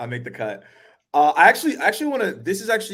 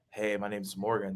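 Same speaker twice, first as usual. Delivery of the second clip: too slow and flat; 5 semitones lower, 9 dB quieter than usual. Retold or imitated. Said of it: "too slow".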